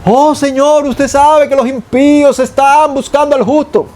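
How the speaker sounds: mock over-elaborate prayer voice; hammed-up ornate prayer; flowery pompous prayer. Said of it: "¿Para qué rebuscar palabras?".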